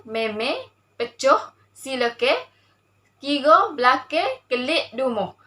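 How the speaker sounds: "meme", "sileke", "belake" ending on e; Kelantan dialect word list. Shown as a demonstration. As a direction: recite "dumuh" and the rest with Kelantan vowels. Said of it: "Contoh dialek Kelantan iaitu".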